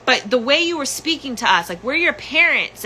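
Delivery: high mock scolding mother; mother justifying. Mother justifying to daughter, high voice. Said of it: "she's justifying it again".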